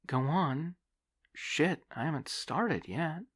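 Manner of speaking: put-on high, loud young woman, indignant; a young woman caught off guard, protesting. Debbie voiced in the story.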